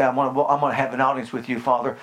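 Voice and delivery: quick, low, self-pitying mumble; a hint of a groveling believer; mock guilty prayer. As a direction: rattle off a guilt-laden prayer. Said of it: "if I walk up and just say".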